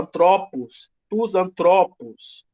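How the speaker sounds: antropos with the middle TRO stressed and stretched; stress on second syllable. Shown as a demonstration. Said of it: "esse us também é contado como longo".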